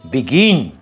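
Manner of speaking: বিগিন with stress on the latter part, গিন; light বি, strong falling গিন in বিগিন; stress on second syllable. Shown as a demonstration. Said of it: "তাতে আমরা স্ট্রেসটা দিচ্ছি".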